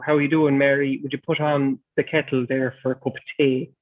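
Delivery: put-on light, melodic Irish accent for a casual greeting; lightly put-on Irish lilt, asking for tea; gentle imitation of an Irish streamer off stream. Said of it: "he would talk like this now".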